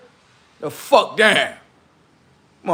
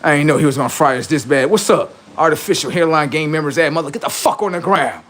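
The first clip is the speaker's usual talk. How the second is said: quick, hushed mock commenter voice; imitating defeated fans; 2 semitones lower than usual. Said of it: "they like".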